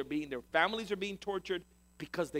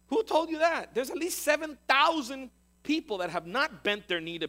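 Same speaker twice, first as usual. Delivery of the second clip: raised, loud, insistent rebuttal; emphatic correction; 7 semitones higher, 4 dB louder than usual. Acted. God telling Elijah others are still faithful, emphatic correction. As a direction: challenge it, then drive the fact home.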